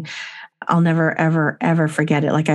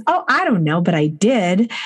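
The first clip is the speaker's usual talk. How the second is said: put-on giggly child voice. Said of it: "she goes".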